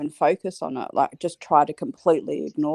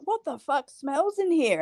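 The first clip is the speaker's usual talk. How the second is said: high, disgusted mock partner voice; partner's disgusted quote; 10 semitones higher, 4 dB quieter than usual. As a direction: voice the grossed-out partner, pitched up. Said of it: "my other half would be like".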